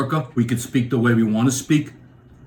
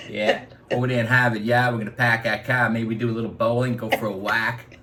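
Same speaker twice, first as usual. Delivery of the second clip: put-on Boston accent; 2 semitones lower than usual. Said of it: "he was saying".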